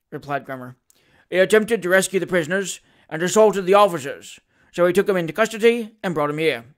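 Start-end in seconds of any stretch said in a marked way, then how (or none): 1.3-6.6 lightly voiced constable giving evidence; a touch of dutiful officiousness; officer reporting to magistrate. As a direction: report it briskly to his worship.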